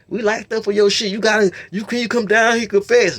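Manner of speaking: mock pleading.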